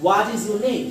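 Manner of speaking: "What is your name?" falling from "What" to "name"; down voice question. Shown as a demonstration. Teacher modelling a WH question, falling on "name". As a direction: let "name" come down. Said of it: "down voice".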